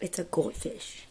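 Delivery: hushed question; whisper. Real, not acted. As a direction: whisper it like a secret. Whispered answer.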